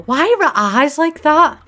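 loud, high and slow; an appalled wail; horrified surprise. Real, not acted. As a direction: recoil at the sight. Shocked by ghost's eyes.

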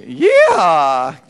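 loud Texan yeehaw with a laugh; Texan twang yeehaw. Shown as a demonstration. Leader shows the crowd a twangy Texan yeehaw. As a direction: holler it with a Southern twang. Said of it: "with a little twang".

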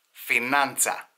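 "Φινάντσα" for Finanzamt, with a Greek -a ending; Hellenised German word. Retold or imitated. Old emigrant uncle cannot say Finanzamt, Hellenised "Φινάντσα". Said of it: "Πού να το πει αυτό ο θείος ο Γιαννάκος".

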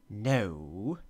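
a curt no in a lightly voiced little man; little man refusing. A narrator's reading. Little man refusing the Queen's guess, curt. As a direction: snap the no back as the little man. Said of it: "answered he".

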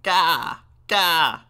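loud, high caw-like wail; piercing raven-baby cry. A narrator's reading. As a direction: squawk out a baby's wail. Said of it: "The baby began to wail again".

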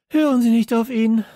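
laut und hoch dazwischenfahren; loud. A narrator's reading. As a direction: energisch abwiegeln. Nicole bricht ab. (laut und bestimmt)

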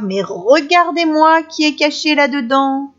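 high, loud mocking little girl; girl bullying the wolf in the bush; taunting girl. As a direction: taunt him like a bratty child.

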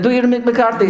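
put-on very high, insistent accented request; put-on voice urging a performance; Jose Mourinho. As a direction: imitate an eager manager. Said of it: "He said".

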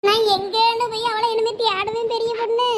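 singsong acted lament; tearful wailing. Mother laments to a neighbour about facing her husband, tearful wailing. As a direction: stretch key words into a helpless wail. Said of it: "இங்க நின்னு அழுதுகிட்டு இருந்தா".

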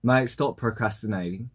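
put-on copying an Australian accent; imitated Australian delivery. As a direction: have a go at sounding Aussie. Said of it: "in the most Australian accent".

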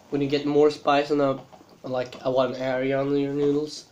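chewing between words; talking while eating. Real, not acted. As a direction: mouth partly full. Seen 1: Lifts forkfuls of noodles from pot, chews between phrases throughout.

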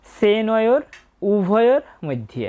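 "সেনয়োর উভয়র মধ্যে" slowly, word by word; model quarter-verse pronunciation. Shown as a demonstration. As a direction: hold the long vowels in "সেনয়োর" and "উভয়র". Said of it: "প্রথম চরণে উচ্চারণটা পেয়ে গেলাম".

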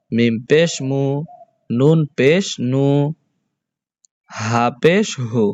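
each letter named, then a long "oo" syllable as in "বু"; spelling drill. Shown as a demonstration. Teacher shows pupils the letters with pesh, deliberate spelling drill. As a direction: spell out "বা পেশ বু" deliberately, holding the last vowel. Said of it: "হরফগুলোর উচ্চারণ করে দেখি".

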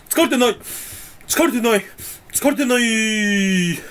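talking himself out of fatigue; insisting. Shown as a demonstration. Word-magic test, telling himself he is not tired. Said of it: "言霊実験するか".

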